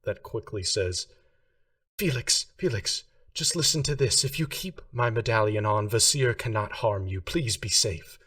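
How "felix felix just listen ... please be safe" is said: quick female voice. Acted. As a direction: rush the warning out, pitched up like a worried woman. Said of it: "it is a female voice that quickly says".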